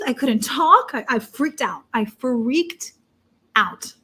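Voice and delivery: ordinary delivery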